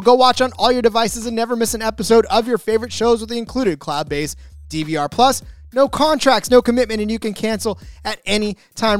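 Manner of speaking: upbeat, pushy sponsor read. Acted. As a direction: sell it like a radio spot. Host reads a sponsor ad.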